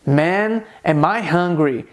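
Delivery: "Man, am I hungry" as a falling exclamation; emphatic inversion. Shown as a demonstration. Teacher shows inversion for emphasis, as an emphatic statement. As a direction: stretch "am I hungry" slowly, no question rise. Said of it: "Eu disse".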